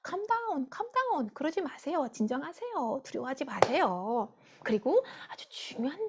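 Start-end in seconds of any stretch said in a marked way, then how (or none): 0.1-4.3 soothing, softer voice settling a crowd; Moses. Acted. Preacher plays Moses calming the frightened Israelites, soothing. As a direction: gently talk panicked people down. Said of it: "이스라엘 백성을 진정시켰어요".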